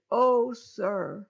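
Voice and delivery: a hint of Judah pleading; begging. Judah begging the harsh ruler to take him instead, lightly pleading. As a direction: beg the ruler to spare the boy. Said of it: "Judah begged".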